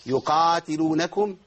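يقاتلونكم slowly with a badly formed qaf; mimicking an annoying reader; mock mispronounced. Shown as a demonstration. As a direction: imitate a weak reader's يقاتلونكم. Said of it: "ويقول إيه؟".

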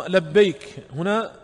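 slow teacher's emphasis on لبيك هنا; stressed and slow. Shown as a demonstration. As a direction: linger on لبيك هنا to point at it. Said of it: "لبيك الثانية".

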